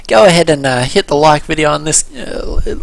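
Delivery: stumbling over the words; tongue-tied, fumbling the line. Real, not acted. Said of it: "you can see how tongue-tied I am".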